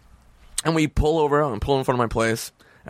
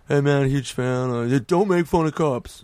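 imitating a cop fan; 2 semitones higher than usual. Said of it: "they always say the same shit".

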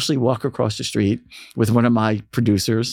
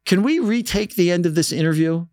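higher-pitched imitated British accent; a singer, British accent; 7 semitones higher than usual. The singer addresses the kid, imitated British accent. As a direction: say it up high, lightly British. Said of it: "the singer has a British accent".

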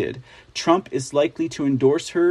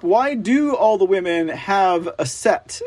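ordinary delivery

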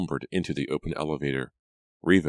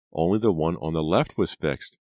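explaining, slightly raised; first, more restrained statement; dawning realization; 3 dB louder than usual. Acted. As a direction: work it out aloud. Reva explains, then repeats in realization.

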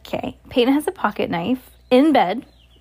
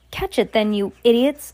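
a touch of witchy impatience; mild acted scream; 2 semitones higher, 4 dB louder than usual. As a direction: scold the underlings, understated. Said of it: "screamed the Grand High Witch".

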